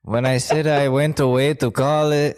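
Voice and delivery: put-on slipping into a light Mexican accent; a hint of a Mexican accent. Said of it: "why am I doing that Mexican accent now".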